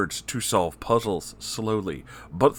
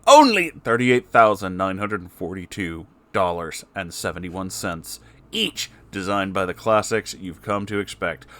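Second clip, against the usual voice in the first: sleazy villain voice; 3 dB louder than usual. Acted. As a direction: hawk it like a crooked salesman. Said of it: "Spamton G Spamton appeared on screen".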